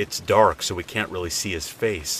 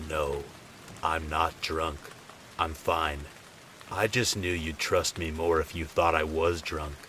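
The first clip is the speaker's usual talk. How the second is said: calm and serious; 4 dB quieter than usual. Retold or imitated. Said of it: "gets real calm, real fast".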